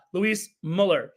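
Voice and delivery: Muller with a short rounded vowel, no y glide; attempted German pronunciation. Shown as a demonstration. Host practising a player's name, Muller said as MULL-er. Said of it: "I will work on pronouncing".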